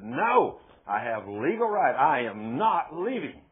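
lightly acted demon, loud and emphatic; defiant man's voice. Demon defying the preacher's order, lightly acted man's voice. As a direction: dig in with a loud, mildly acted refusal. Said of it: "this is a man's voice talking".

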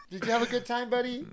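high, soft pet-talk voice; talking to a dog. Real, not acted. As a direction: coo it softly to the dog.

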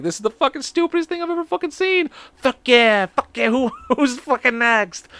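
high, laughing mock cheer; laughing mockery. Host retelling how he used to laugh at the video, high giggling mock. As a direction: cackle along at something absurd.

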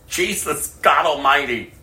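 high, loud outcry of disbelief; loud, high-pitched exclamation; exclaiming. Real, not acted. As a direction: cry out to God in shock. Exclaiming over fallen mentor.

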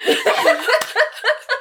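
loud high burst of laughing; high laughter. Real, not acted. Cracking up at the Indian music caption, high laugh.

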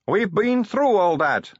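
slow, high weary moan. A narrator's reading. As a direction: groan it out, fed up. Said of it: "moaned Sally".

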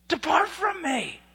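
loud, high, drawn-out slow shout; shouted verdict. Acted. Preacher as Jesus dismissing false disciples, slow high shout. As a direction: hurl the final sentence out slowly.

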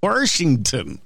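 slow Washington with an r, Warshington; drawn-out local Warshington; careful Warshington. Shown as a demonstration. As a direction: slowly work out Warshington. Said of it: "Wash-, Washing".

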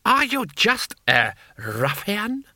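high, drawn-out lordly indignation; scornful high cry, slowly stretched; screamed. A narrator's reading. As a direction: demand it like an outraged lord. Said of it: "screamed Lord Hong".

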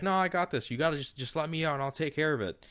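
eager Jack pushing to be let out; quickened mock insistence; insisting Jack.

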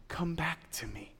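breathy whisper, pleading; whispered plea. Acted. God calling the lost betrayer home, whispered. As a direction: whisper it like a longing call. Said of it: "God gave himself in love, saying".

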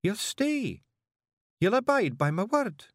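high, a touch teary; sniffling. Acted. Jeanie makes Rob promise, in a mildly teary voice. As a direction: press him through sniffs.

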